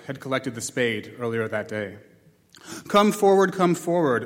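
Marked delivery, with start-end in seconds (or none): 2.9-4.2 shouted order, higher and louder; sergeant's order. Acted. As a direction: bark it out like a drill sergeant. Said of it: "ordered the sergeant".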